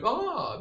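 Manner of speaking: high, preening sigh of delight. Acted. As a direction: let out a high, mock-delighted "ah". Mimics delighted model seeing itself.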